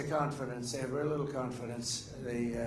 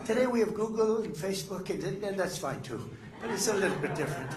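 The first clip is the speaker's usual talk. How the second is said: higher, laughing through it; amused, half-laughing aside; light laugh under the words; chuckling; 6 semitones higher than usual. Real, not acted. Chuckling comparison.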